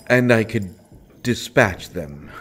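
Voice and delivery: the prisoner tells the princess he will kill the guards; menacing boast. Acted. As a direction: promise violence with relish.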